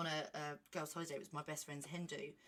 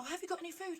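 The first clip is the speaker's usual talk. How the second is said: Jen; 11 semitones higher, much faster than usual. Retold or imitated. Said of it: "She's like".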